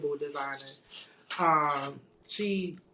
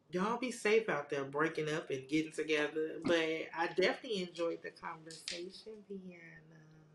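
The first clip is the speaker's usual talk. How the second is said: sultry narrator; 6 dB quieter than usual. Shown as a demonstration. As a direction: purr it out, smooth and sultry. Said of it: "You like my seductive voice".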